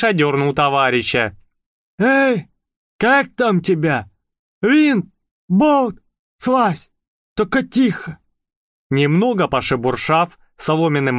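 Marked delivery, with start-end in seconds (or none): 2.0-8.2 high, urgent mouse voice; whisper yelling. Acted. Mouse calls to Bolt. (громкий шёпот мыши)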